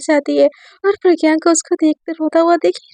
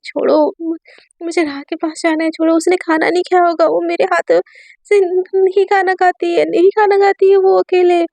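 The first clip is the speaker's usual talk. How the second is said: higher, desperate pleading; frantic crying plea; 4 semitones higher than usual. Acted. Pihu begs the guards to let her go, tearful pleading. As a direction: beg to be let go, near tears. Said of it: "पागलों जैसे रो रही होती है".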